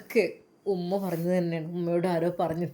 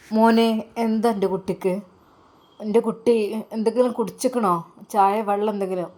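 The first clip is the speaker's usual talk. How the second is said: louder, mildly fussing mother; lightly voiced caring mother; 3 semitones higher, 4 dB louder than usual. Mother asks if her son has had tea or water, lightly acted concern.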